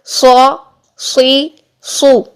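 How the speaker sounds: slow, full-mouthed سو، سی، سو; heavy saad syllables. Shown as a demonstration. Teacher drilling students in saad syllables, سو heavy and drawn out. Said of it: "موٹے حروف والی آ کی sound".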